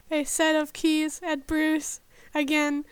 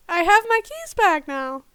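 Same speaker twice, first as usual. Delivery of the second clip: shocked; 3 semitones higher, 5 dB louder than usual. Acted. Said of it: "he said in shock".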